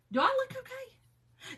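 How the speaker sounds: high, slow, whiny mock cry. Answering the neighbor with a hammed-up, slow mock cry. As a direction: wail it like you're falling apart, hammed-up. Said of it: "And I'm like".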